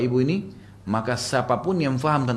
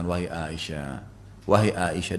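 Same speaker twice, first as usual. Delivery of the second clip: soft, low, gentle address; kind, courteous; 7 semitones lower, 5 dB quieter, slower than usual. Retold or imitated. Husband gently addressing his distressed wife, kind and courteous. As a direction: speak low and kindly, politely. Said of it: "dengan suara baik, santun".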